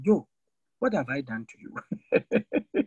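put-on slow, wounded complaint from an old man; aggrieved old man. Old man complaining to the preacher, slow and hurt. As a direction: drag it out like a hurt elder. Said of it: "One man called me and said that".

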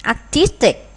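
"Artistic" with the middle syllable brought out; teacher's demo of "Artistic", weight on "tis"; second-syllable stress. Shown as a demonstration. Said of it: "Artistic nhấn âm hai".

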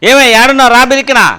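loud call into the house. Acted. Wife shouting for her husband to come out.

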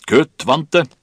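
high, loud roar like a foghorn; Kaptein Wilkinson bellowing. A narrator's reading. Captain to crew trapped by rigging, bellowed. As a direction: bellow the order against the wind. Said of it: "brøle som en tåkelur".

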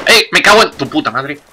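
sudden furious yell; angry shout. Real, not acted. Just shot in the game.

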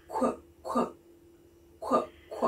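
"Qu, qu" as a short voiceless kw puff; letter sound Q. Shown as a demonstration. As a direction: whisper "qu" as a clipped kw sound. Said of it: "what sound do we get from".

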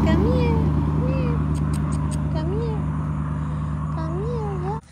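high, loud sing-song summon; loud high pet call. Real, not acted. Calling kittens loudly.

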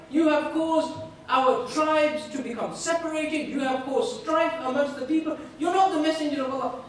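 indignant, insistent charge; heated accusation. Retold or imitated. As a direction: accuse him emphatically, voice lifted. Bedouin accuses the Prophet of division.

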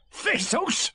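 high, exuberant creature voice; Tigger. A narrator's reading. Tiger announcing his favourite food, high and excited. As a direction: pipe up with bouncy excitement. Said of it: "said Tigger".

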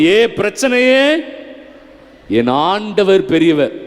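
confident model declaration of faith; demonstrated joyful declaration. Shown as a demonstration. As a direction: say it gladly and firmly to your troubles. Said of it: "சந்தோஷமா சொல்லணும்ல?".

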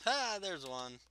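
sudden high, loud ha; excited. Real, not acted. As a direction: pounce on the find. Spots a target.

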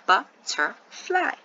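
slow Butterfly as three distinct sounds; BUT, TER, FLY, evenly spaced; syllable by syllable. Shown as a demonstration. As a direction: slowly sound out Butterfly for a class. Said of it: "hear the three distinct vowel sounds".

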